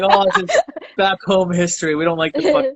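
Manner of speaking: high, put-on mate voice mimicking his English friends; mocking English friends. Imitating his English friends, high and mocking. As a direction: squeak out the English friends' excuse. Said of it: "They're like".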